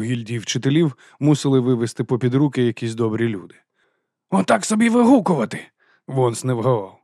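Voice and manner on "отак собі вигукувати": angry berating. A narrator's reading. Vons scolding Vimes over the raven, high loud anger. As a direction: hammer each word at him.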